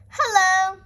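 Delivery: loud, bright call across the water; cheerful shout. A narrator's reading. Grampy Rabbit hails Peppa from his hovercraft, shouting. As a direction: hail them from the hovercraft. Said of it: "shouts Grampy Rabbit".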